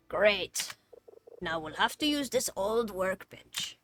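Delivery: lively put-on quest-giver voice, swooping pitch; hammy foreman handing out a job; game character voice. Game character giving orders to clean the shed, lively character voice.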